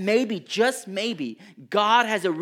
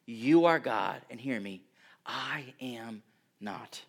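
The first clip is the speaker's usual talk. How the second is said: humble surrender; 5 semitones lower than usual. Pretend. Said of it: "a patient humility that says".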